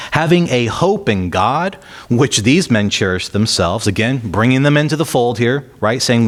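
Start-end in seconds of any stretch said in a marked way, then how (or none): 0.1-3.9 lifted, deliberate reading voice; scripture reading. Acted. Preacher reading Paul's defense to the church, in a lifted scripture voice. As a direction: read Paul's words out to the congregation.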